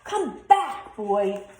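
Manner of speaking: high loud shout after him; calling out. A narrator's reading. Angry giant chasing Jack, shouting high and loud. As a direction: yell after the escaping boy.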